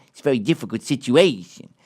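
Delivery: a hint of a Mafia boss, half-hearted; lightly voiced mobster menace; Tony Soprano impression. Man imitating a mob boss to a dog owner, mild menace. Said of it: "I do my classic Tony Soprano".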